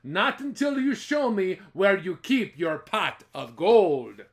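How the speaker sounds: loud, firm demand. Acted. Jamie demanding the leprechaun's gold, loud. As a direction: insist on the gold.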